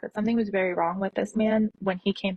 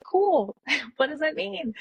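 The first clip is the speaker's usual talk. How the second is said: mock breezy cool; 7 semitones higher, slower than usual. Clueless reply to the nurse.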